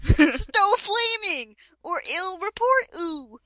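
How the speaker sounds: slow, high, breaking into laughter; laughing while reading. Real, not acted. Reading a flame warning to a friend, laughing. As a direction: struggle through the words laughing.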